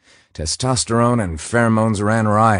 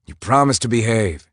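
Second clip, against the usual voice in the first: higher, louder teasing scold; 4 semitones higher, 4 dB louder than usual. Acted. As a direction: scold her, half amused. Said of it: "he scolded".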